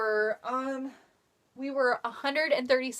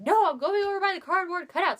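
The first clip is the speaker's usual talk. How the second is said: high, pouty friend voice; higher, snippy friend brushing her off; mock bratty friend; 8 semitones higher, 3 dB louder than usual. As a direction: imitate the friend's stubborn refusal. Friend Mary retold, refusing.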